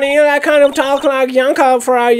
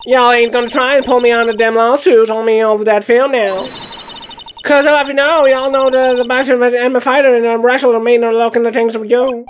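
lightly voiced Southern woman. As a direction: play a country gal lightly, fussing. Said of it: "I'm having fun doing their voice".

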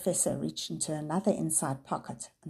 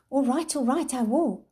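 quick frightened giving in; hastily; 7 semitones higher, 5 dB louder than usual. A narrator's reading. Sam hastily gives in to save the dog. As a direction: rush to surrender. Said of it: "Sam said hastily".

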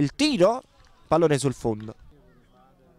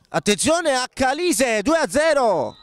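breathless italian goal commentary; 8 semitones higher than usual. Real, not acted. Second goal, commentator erupts.

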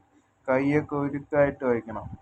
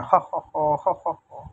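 spoken mock laugh, ha ha ho; forced laugh; 3 semitones higher, slower than usual. Cat told to stop crying forces a laugh, mock laughing. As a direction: fake a laugh on cue. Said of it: "കരയാതെ ഞാൻ ചിരിക്കാം".

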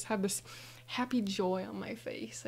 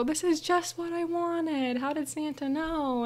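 delighted amazement; 7 semitones higher than usual. Retold or imitated. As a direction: marvel at the perfect gift. Acting child amazed by wished-for gift.

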